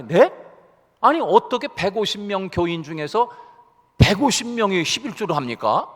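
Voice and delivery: mildly acted disbelief, rising at the end; mock surprise in a told joke; astonished question. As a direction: retell a taken-aback questioner. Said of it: "그러면서 깜짝 놀래가지고서".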